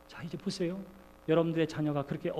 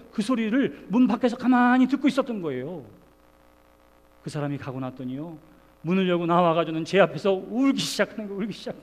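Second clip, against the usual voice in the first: ordinary talk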